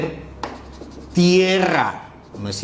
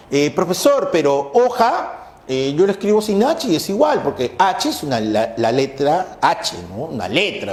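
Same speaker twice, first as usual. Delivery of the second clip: quoting a student. Retold or imitated. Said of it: "Dicen los estudiantes".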